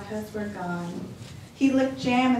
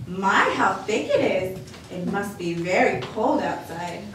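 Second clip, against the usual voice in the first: lightly voiced cheerful grandma welcoming a guest; a hint of a bright old lady; old grandmother voice; 3 dB louder than usual. Baba Brana's voice.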